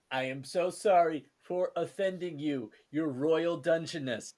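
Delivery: sarcastic. Acted. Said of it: "without the sarcasm".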